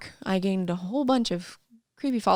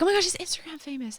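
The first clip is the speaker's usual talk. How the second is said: mock gushing friends; 9 semitones higher, 5 dB quieter, faster than usual. Quoting friends excitedly.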